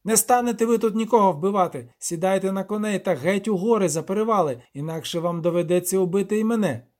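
high, bleating little devil, indignant; a furious goat-man ordering intruders off his land. Acted. Devil Torkve again, defiant.

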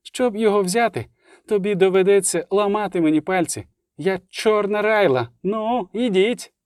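high-pitched challenge, slowing at the end; defiant cry. A narrator's reading. Райла challenging the elves to come, high defiant cry. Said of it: "крикнула".

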